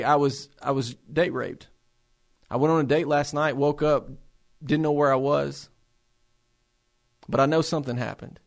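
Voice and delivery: low, subdued voice of a patient; retold painful disclosure.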